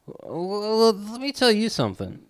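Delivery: high, put-on voice squaring up for a fight; mock confrontation. Teasing a friend with a put-on voice, mock showdown. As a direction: pretend to start a showdown.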